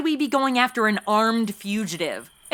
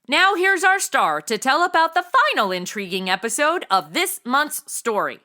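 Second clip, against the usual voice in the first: mock announcer; 2 semitones higher than usual. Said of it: "I got this".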